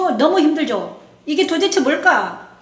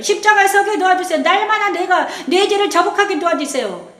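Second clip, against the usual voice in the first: higher, pleading prayer voice; earnest prayer; 4 semitones higher than usual. Shown as a demonstration. Pastor models a scripture prayer, pleading and raised. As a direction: lift each plea up to God. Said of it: "두 번째는 어떻게 기도해야 돼요?".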